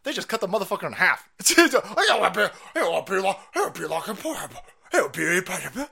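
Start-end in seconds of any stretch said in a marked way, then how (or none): 1.7-5.9 mock whiny voice. Mocking a trans person's words.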